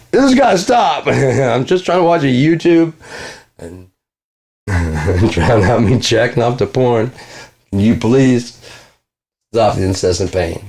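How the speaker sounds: high, drawn-out desperate plea; high pleading victim voice. Retold or imitated. Mocking the victim begging it to stop, high and hammed-up. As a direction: beg like the cursed man.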